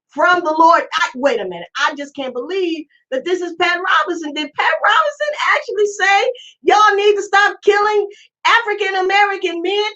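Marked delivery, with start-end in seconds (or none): 4.3-9.9 astonished. Real, not acted. Stunned by Pat Robinson clip.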